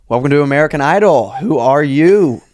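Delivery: an Idol judge welcoming a nervous singer; talent show judge. Pretend. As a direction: greet the contestant like a TV judge. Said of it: "Act like Simon Cowell".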